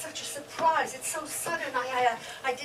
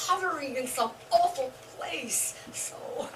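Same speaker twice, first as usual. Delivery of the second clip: breathy whisper of a painful secret; whispered confession. Acted. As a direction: let the voice drop to a whisper. Confessing about husband on machines.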